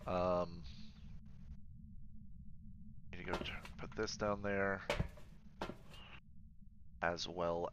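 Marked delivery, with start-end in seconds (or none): 3.1-4.8 hushed whisper; breathy whisper to yourself. Real, not acted. Hushed while ghost hunting.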